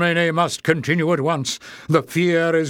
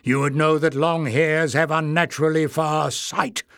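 louder goblin elder snapping; 3 semitones higher, 3 dB louder than usual. Acted. Warren rebuking Clef, snapping. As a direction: snap back at the careless boy. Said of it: "snapped the other".

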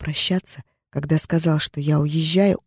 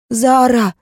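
put-on higher, loud children's cry; 7 semitones higher, 7 dB louder than usual. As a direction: scream her name like a child. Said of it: "кричали девочки".

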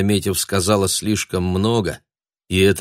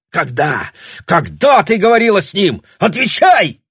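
angry man demanding answers; mounting fury; 5 semitones higher, 4 dB louder than usual. A narrator's reading. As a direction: interrogate her, rising to a yell. Matthew angrily interrogates her.

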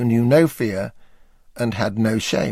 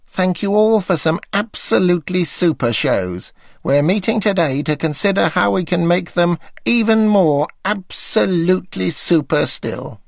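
higher, measured, earnest host voice; David Frost impression; 6 semitones higher than usual. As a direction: address the team like Frost. Narrator voices David at meeting.

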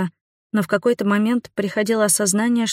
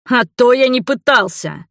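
loud, higher furious retort; angry outburst; 6 semitones higher, 4 dB louder than usual. A narrator's reading. Fiancé snaps furiously at the heroine. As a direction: lash out in anger. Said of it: "вызверился он".

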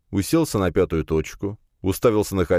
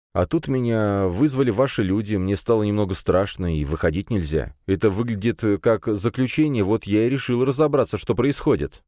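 lightly voiced youth explaining himself, a little higher; slightly higher, halting self-justification; nervous young man; 4 semitones higher than usual. (слегка взволнованный парень оправдывается)

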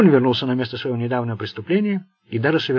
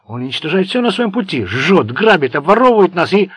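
loud, higher, raging at a traitor; furious outburst; 6 semitones higher, 9 dB louder than usual. A narrator's reading. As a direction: spit it out in pure fury. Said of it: "был вне себя от ярости".

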